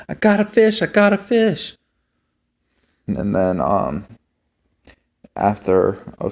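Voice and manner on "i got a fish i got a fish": put-on high, eager cry of a kid landing a fish; excited shout. Retelling how the kids yelled on their first catches. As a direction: squeal it out like your first catch. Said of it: "we'd get excited and go like".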